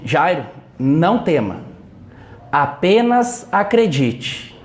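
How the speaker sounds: slow, weighted words of comfort; solemn reassurance. Retold or imitated. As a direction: give each word room, slowly. Jesus reassures the grieving father. (consolo solene e pausado)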